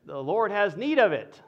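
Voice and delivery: said through a laugh; sheepish excuse. Acted. Thief offering a lame excuse to the car owner, laughing. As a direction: try the excuse and crack up.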